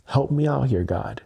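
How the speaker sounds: a touch of desperate pleading to God; mimicking upset plea. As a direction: friend quoting a man begging God for help in his car, mildly pleading. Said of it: "he was like, so upset".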